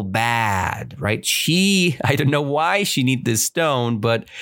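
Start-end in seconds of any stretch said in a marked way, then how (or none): none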